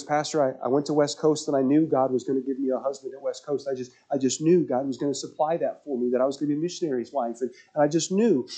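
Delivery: a hint of a young woman's earnest plea; young woman voiced. Pastor voices a pregnant young woman.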